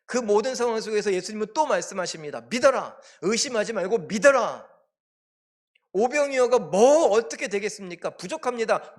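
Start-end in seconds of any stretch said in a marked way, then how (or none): 2.4-4.7 loud, raised preaching voice; emphatic command. Acted. Jesus tells doubting disciples to believe, emphatic command. 5.9-8.9 high, loud objection; doubting protest. Acted. Disciple questions the loaves miracle, doubting protest.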